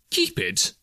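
very high-pitched disbelief; incredulous echo. A narrator's reading. Nephew repeating his uncle's words, incredulous. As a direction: echo it back in amazement.

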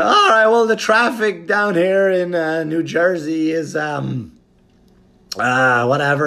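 high, loud, stammering flustered comedian; nervous squeaky stalling; flustered comic voice. Retold or imitated. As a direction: scramble for a joke while bombing. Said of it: "So I go".

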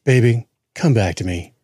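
pleading R&B spoken interlude; mock a heartbroken song monologue; an R&B group's talk part. Co-host imitating the pleading song talk, mock heartbroken. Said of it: "I hate it when the talk is".

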